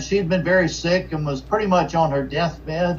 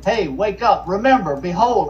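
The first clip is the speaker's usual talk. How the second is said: emphatic wake-up call; 4 semitones higher than usual. Retold or imitated. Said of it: "it's an emphatic word. It's like".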